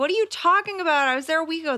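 mock disbelief. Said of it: "you're like".

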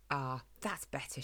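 soft, low sigh of contentment; relieved smile. A narrator's reading. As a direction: settle into it quietly, with a smile. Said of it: "she smiled".

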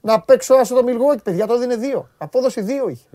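loud, slow mocking taunt; retold jab at friend. Mocking his friend the NBA expert, loud and slow. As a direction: drag it out, ribbing the know-it-all. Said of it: "Και του λέω, ρε".

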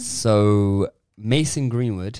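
slow, low, grave introduction; serious. Real, not acted. Host introducing the arrest news on a podcast, serious. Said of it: "Serious time".

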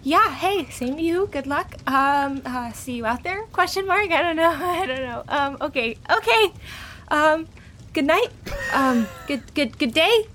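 flustered Annie. Acted. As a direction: fumble every word like you want to escape. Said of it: "Annie's just gonna nod and be like".

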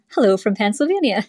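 half-hearted try at a Pennsylvania accent. Shown as a demonstration. Irish caller playfully greeting the show in a faint Pennsylvania accent. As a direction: lightly put on a Pennsylvania accent. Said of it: "hit us with that Pennsylvania accent".

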